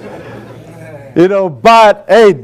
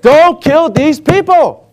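pleading; 6 semitones higher than usual. Retold or imitated. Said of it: "He's like".

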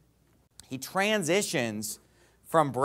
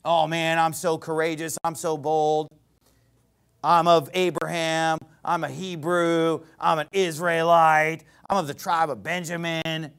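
bragging; 2 semitones lower than usual. Acted. Preacher mimicking Paul bragging of his pedigree, mock boastful. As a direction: imitate a self-important boaster. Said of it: "He's bragging about being bold".

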